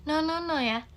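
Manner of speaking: soft coaxing mother; gentle mother. Acted. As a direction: soothe the toddler to sit. Gentle mother calms toddler. (ibu lembut membujuk balita)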